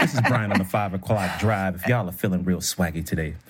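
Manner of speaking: mock DJ drive-time intro, laughing; smooth radio voice. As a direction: play a late-afternoon radio host. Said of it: "your smooth radio voice".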